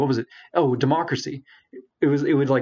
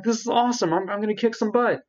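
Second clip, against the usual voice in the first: gleeful; 9 semitones higher than usual. Retold or imitated. Self-quote, gleeful about winning.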